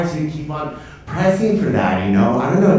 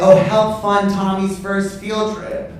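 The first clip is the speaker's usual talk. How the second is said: mock parent's fundraising ask; 8 semitones higher, slower than usual.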